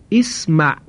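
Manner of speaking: اسمع said as isma, opening with a short i; Arabic model word. Shown as a demonstration. Teacher models the verb for the class, careful demonstration. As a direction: clear isma with the i at the front. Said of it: "همزهٔ وصل در فعل امر".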